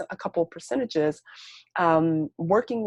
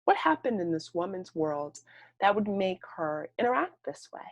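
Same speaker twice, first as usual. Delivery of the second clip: gentle question; 2 semitones higher, 4 dB quieter than usual. Retold or imitated. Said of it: "invites us to ask the question".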